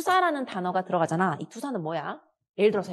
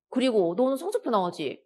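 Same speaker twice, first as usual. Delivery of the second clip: scolding mother; 4 semitones higher than usual. Acted.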